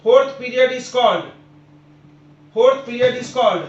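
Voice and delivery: very slow, loud classroom announcement; slow, emphatic announcing. Real, not acted. Teacher cueing students for the series name, slow and emphatic. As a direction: spell it out slowly and firmly for the class.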